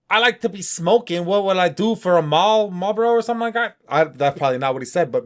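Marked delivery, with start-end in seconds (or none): 0.1-3.8 a light mock rap voice, a bit higher and brighter; lightly voiced rapper impression; imitating the rapper. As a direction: parrot the rapper's bars loosely, half-rapped. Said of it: "He's like".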